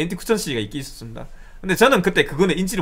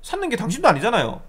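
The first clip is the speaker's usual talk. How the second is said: retold exasperated protest; re-enacted annoyed comeback; somewhat angry. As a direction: vent at the caller with mild indignation. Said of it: "화를 내면서 얘기를 했어요".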